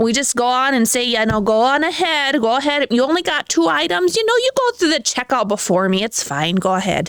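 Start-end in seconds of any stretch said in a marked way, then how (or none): 1.1-7.1 put-on Minnesota accent, pushed over the top. Acting out letting someone go first at checkout: exaggerated Minnesotan accent. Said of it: "kinda pushing it tonight with the Minnesota".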